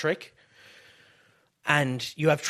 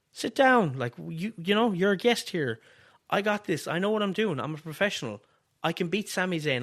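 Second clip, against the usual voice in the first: raised pitch, lightly playing a firm wrestler; acted simmer-down; 4 semitones higher than usual. Wrestler reining in his helper backstage, mildly firm. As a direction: put an eager partner lightly in his place. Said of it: "have Trick simmer him down and be like".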